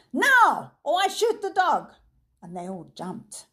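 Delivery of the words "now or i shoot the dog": much higher, loud furious shout; sudden shout. A narrator's reading. Villain suddenly shouts at the frozen boy. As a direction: bark the threat. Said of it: "the professor suddenly shouted".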